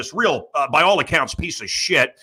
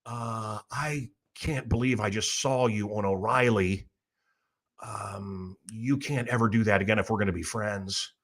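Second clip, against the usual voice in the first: quoting Louis C K; 5 semitones lower, 7 dB quieter than usual. Retold or imitated. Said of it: "called me up and said".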